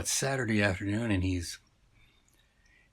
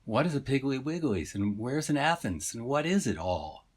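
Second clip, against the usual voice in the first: lightly voiced fish, pitched up in bewilderment; piling up baffled questions, a bit higher; exasperated halibut; 5 semitones higher than usual. Lost fish pressing the shopper for answers, mildly exasperated. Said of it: "couldn't really hear the sigh of the halibut".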